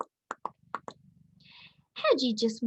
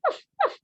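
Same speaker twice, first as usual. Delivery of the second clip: dog woof. A narrator's reading. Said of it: "her puppies yelped and giggled".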